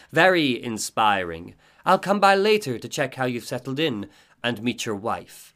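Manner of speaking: measured and ominous, drawing out the close; eerie veiled woman. Acted. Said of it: "she says".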